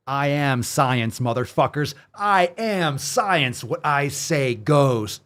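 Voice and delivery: slow, grand, booming "I am science"; slow mock pompous decree; pompous authority impression. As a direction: declare yourself the voice of science. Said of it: "Was that a good impression?".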